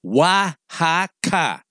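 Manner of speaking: "Oaxaca" said very slowly as wah-HAH-kah; slow phonetic spelling-out. Shown as a demonstration. Reading a listener's letter, sounding out "Oaxaca" very slowly as wah-hah-kah. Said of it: "So here it be phonetically".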